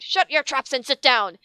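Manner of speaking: angry order. Acted. Teacher yells at students.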